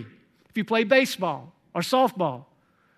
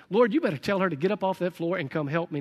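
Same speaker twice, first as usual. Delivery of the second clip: imitating Martha; 4 semitones lower, faster than usual. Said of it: "she doesn't say it like that".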